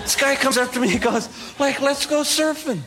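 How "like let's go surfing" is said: slow, high-pitched surfer dude; California surfer. Retold or imitated. Muscly guy invites newcomer surfing, mock California surfer. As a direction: imitate a laid-back surfer drawing out the words. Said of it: "I'm in California".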